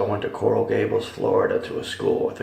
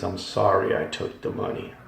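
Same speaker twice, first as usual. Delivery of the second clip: quiet, sinking plea fading to a breath; a hushed, haunted apology overheard in hell; softly repeated pleading; 2 semitones lower, 6 dB quieter than usual. Retold or imitated. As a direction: murmur the apology softer each time, almost a whisper. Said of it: "all I could hear them keep saying is".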